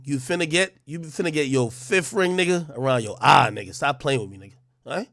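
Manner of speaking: lightly voiced tough-guy threat; mock menace, barely moved from his own voice; a hint of a street gangster warning; talking gangsta. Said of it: "Maybe I gotta start talking gangsta".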